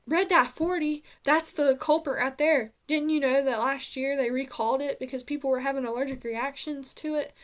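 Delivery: surprised realization. Retold or imitated. Doctor Best realizing the culprit.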